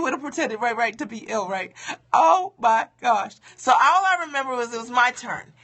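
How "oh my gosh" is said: dismayed exclamation. Real, not acted. Dreading her turn to sing.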